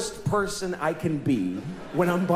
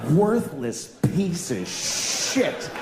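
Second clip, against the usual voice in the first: slow disbelieving repeat; much slower than usual. Shown as a demonstration. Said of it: "repeats the insult slowly".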